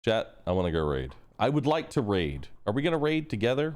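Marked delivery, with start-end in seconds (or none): 1.4-3.7 higher pleading other self; arguing with myself. Pretend. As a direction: play your whiny other self. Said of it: "Shut up, me".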